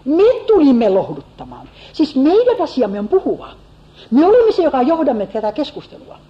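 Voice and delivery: thought voiced high, with a lift on ole; a touch of a self-important comforter; Eliphaz's proud thought. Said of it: "ajattelee Elifas".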